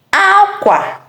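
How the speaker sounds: "Akwa" pitched high, falling at the end; clothes tone. Shown as a demonstration. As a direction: start "Akwa" high and let the end drop. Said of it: "The first one I said is aqua".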